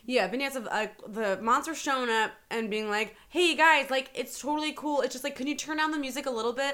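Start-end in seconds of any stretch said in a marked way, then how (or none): 3.3-6.7 lightly voiced higher, apologetic neighbour; polite complaining neighbour.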